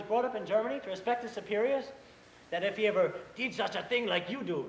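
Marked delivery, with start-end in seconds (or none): 2.5-4.6 a hint of a stern German boss; lightly mock the boss's lecture; imitating Mister Stroheim. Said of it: "You got him down perfect".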